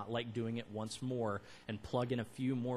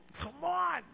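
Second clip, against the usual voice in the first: high strained grunt; straining; 14 semitones higher, 4 dB louder than usual. Pretend. Preacher mimics trees straining to grow fruit, high strained push. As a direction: push it out like someone straining hard. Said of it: "shut their eyes tightly and strain and go".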